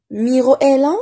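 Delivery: MIRO EST LÀ asked high and loud, rising on LÀ; question intonation. Shown as a demonstration. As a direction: read MIRO EST LÀ as a clear question, lifting the end. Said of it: "c'est une phrase". (MIRO EST LÀ sur un ton interrogatif, voix montante)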